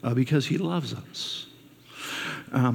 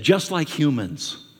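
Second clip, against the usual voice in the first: slow punchline; slower than usual. Retold or imitated. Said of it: "He said".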